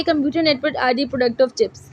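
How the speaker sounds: word by word for note-taking; slow dictation. Shown as a demonstration. Teacher quoting the book to students, slow. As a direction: read the book line slowly.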